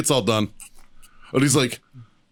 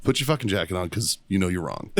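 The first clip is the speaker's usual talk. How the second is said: calm request; 6 semitones lower, 4 dB quieter than usual. Retold or imitated. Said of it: "before I started yelling".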